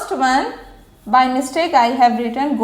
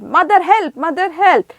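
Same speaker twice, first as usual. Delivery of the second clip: shouting for mother; 4 semitones higher than usual. Acted. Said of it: "he shouted".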